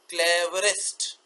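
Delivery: क्लेवरेस्ट drawn out as cle-ve-rest; three sounds. Shown as a demonstration. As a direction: slowly stretch all three syllables of क्लेवरेस्ट. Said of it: "तो दो तीन हो सकते हैं". (क्लेवरेस्ट को खींचकर तीन साउंड में)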